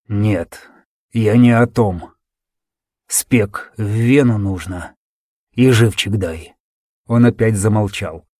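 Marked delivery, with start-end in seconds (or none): 0.1-2.1 wounded soldier. Acted. Wounded soldier instructs weakly. 3.1-5.0 faint, slow wounded voice; weak slow words. Acted. Dying soldier's instruction. 5.5-6.5 wounded soldier. Acted. Wounded soldier instructs weakly.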